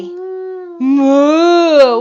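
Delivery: cow moo. Shown as a demonstration. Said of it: "What does a cow say?".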